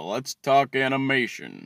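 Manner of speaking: lightly attempted slow drawl; a half-hearted TV doctor impression; Doctor Phil. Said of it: "I can't do fucking impressions".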